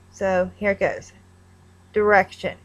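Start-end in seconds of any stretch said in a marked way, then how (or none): 1.9-2.6 direction as der-ECK-shun, no d-eye sound; Kentucky pronunciation. Shown as a demonstration. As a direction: say direction like tuh-RECK-shun. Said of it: "I say direction".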